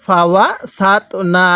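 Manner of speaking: syllable-by-syllable recitation, measured and drawn out; slow model reading. Shown as a demonstration. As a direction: recite slowly for learners to copy. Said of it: "আমার সাথে পড়ুন".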